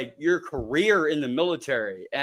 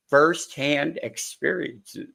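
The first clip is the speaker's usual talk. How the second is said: slow, faltering read; choked up, stumbling; slower than usual. Real, not acted. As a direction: stumble slowly over "Firsthand experiences". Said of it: "Get choked up here".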